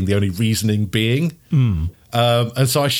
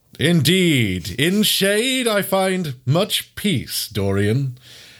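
slow, drawn-out, high-pitched talking-dog voice; 6 semitones higher than usual. In a tabletop game, replying to Dorian, the forum overseer: Dogogenes voice. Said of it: "Shaggy talking Newfoundland. We didn't discuss any race traits in this game, so I can't see why you can't just go for it. Yeah, and I'm going to be called that".

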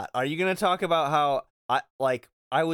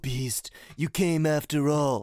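put-on breathy character voice. Recapping a story scene, voicing Zaldin addressing the Beast, breathy Zaldin voice. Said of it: "His voice is so breathy, I can't do it right".

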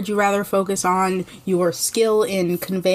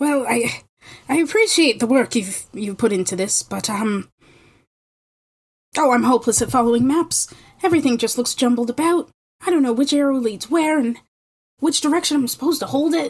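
put-on lost, rambling, flustered, high, fretful old man voice; 5 semitones higher than usual. Game master, as the lost old man looking over the players' map, in an old man voice. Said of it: "I'm just an old man who got lost on his way home from the fair. / I'm just an old man who got lost on his way home from the fair. / I'm just an old man who got lost on his way home from the fair".

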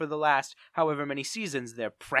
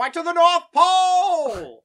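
screamed train conductor voice, higher and louder; 11 dB louder than usual. Doing the north pole line as asked, screaming as the conductor. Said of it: "is screamed".

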